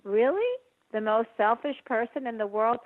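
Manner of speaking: hammed-up disbelief at the inner critic; mock incredulous. Shown as a demonstration. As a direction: scoff at the charge in disbelief. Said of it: "to that you say".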